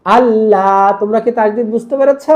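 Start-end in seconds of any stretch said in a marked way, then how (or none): 0.0-1.0 আল্লাহ with the final লা held; quick আল, lengthened লা; long madd. Shown as a demonstration. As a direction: draw out the last vowel of আল্লাহ. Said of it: "এই জন্য টান দিচ্ছি".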